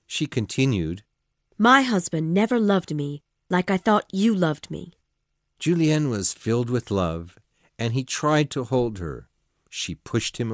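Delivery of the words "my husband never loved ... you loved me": agitated woman, raised and loud; Missus de Renal, loud and pitched high. Acted. Woman reproaching her lover, loud and upset. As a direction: pour it out, upset. Woman character voiced in story.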